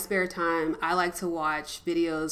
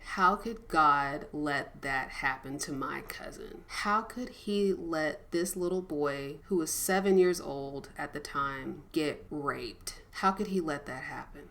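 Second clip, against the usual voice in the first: slow and softer, voice close to breaking; holding back tears; 2 semitones lower, 4 dB quieter than usual. Retold or imitated. Recalling her abused cousin to viewers, near tears. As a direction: fight the tears while asking why. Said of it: "I'm really trying not to cry".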